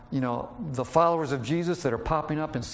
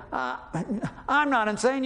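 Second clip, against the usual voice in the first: angry retort; 9 semitones higher than usual. Retold or imitated. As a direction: fire back like you're insulted. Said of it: "No, he doesn't say that".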